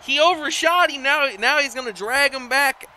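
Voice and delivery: animated play-by-play; excited call. Real, not acted. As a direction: call the blunder with urgency. Calling the missed splash.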